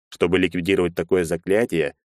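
ordinary delivery

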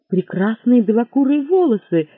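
ordinary delivery, nothing marked

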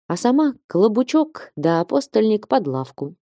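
ordinary delivery, nothing marked

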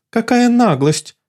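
high haughty outrage; indignant. Acted. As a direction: storm off offended. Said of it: "возмутилась она".

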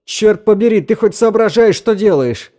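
high, loud furious snap; angry outburst. A narrator's reading. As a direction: cut him off in anger. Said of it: "оборвал его Дрейк".

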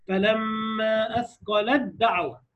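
فلما أثقلت دعوة stretched, تاء merged into دال; slow recitation. Shown as a demonstration. Teacher reciting Quran example for students, slow. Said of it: "طالع من لام على الدال".

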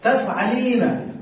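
drawn out, syllable by syllable; تفعلين said slowly with each syllable clear; slow correction. Shown as a demonstration. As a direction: spell out تفعلين slowly for the student. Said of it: "لا".

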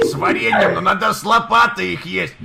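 loud mock insistence; loud insisting. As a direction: raise the voice and insist. Insisting on shovel pancakes.

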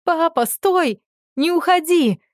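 very high, pleading scream; desperate scream. A narrator's reading. Дочь кричит отцу, чтобы он не уходил, в отчаянии. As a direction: beg him to stop at full voice. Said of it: "я закричала со всей силой лёгких".

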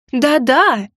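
eager, insistent agreement; hasty assurance. A narrator's reading. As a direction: rush to reassure. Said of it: "торопливо принялась уверять я". (торопливо уверяя)

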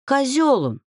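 exasperated outburst; snapping. A narrator's reading. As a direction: lose patience and blurt it out. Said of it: "не выдержала я".

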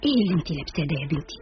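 mildly critical mother's nagging; disapproving. Acted. Mother inspecting her daughter's outfit, disapprovingly. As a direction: pick at her looks with displeasure. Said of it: "قائلة بعدم رضا عن مظهري".

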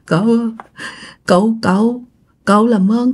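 acted sobbing between words; broken, halting plea through mock tears; tearful pleading. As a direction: beg with sniffly catches of breath. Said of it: "Mà vừa khóc vừa nói nha".

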